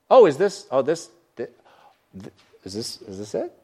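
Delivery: hammed-up sniff at the meal, fading; disappointed guest.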